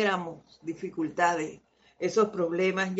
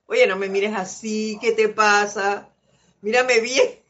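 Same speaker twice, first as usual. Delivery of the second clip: louder, hammed-up challenge; a mock complaint, louder; mock confrontation; 5 dB louder than usual. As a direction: act out scolding a friend for glaring. Voicing people confronting the friend.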